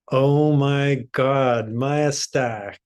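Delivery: drawn-out, happy greeting; delighted surprise. Real, not acted. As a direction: greet a returning friend with slow, delighted amazement. Greeting someone back from retreat.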